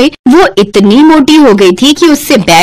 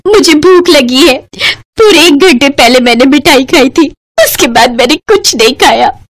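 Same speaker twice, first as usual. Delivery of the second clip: hammed-up tearful complaint, slightly raised; sobbing bride; 2 semitones higher than usual. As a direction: whimper about hunger like a child. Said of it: "सिसक सिसक कर रो रही है".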